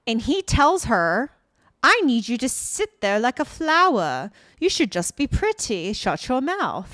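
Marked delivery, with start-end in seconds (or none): 1.8-6.9 louder, emphatic dismissive putdown; retold bossy order, pushed loud; mock domineering boss. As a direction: imitate a rude boss laying down the law. Boss retold being disrespectful to her.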